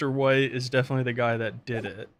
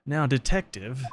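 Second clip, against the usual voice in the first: lightly British judge; a touch of British accent. Acted. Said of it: "I think he is British".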